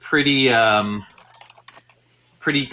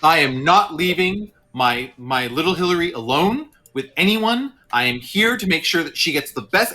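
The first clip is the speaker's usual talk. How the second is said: lightly voiced worried father, firmly insisting; mildly ramp up the parental concern; anxious protective dad; 3 semitones higher than usual. Dad refusing to leave little Hillary, mildly worked-up concern. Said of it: "starts ramping up that, like, you know, that kind of parental concern".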